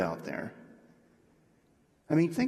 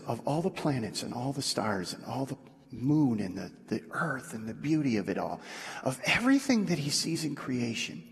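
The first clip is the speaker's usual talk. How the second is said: tender; 3 semitones lower, 5 dB quieter than usual. Retold or imitated. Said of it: "He says".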